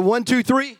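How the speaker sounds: rally the rest of the room on the count. Shown as a demonstration. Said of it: "Need the rest of you".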